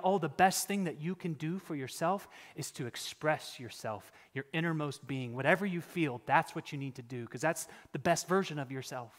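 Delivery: soft, mocking preacher's voice; mocking the pastors. Preacher mocks pastors who preach self-expression, in a soft parody voice. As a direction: parody of a pastor giving feel-good advice. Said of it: "culturally bent pastors who come into the church saying that".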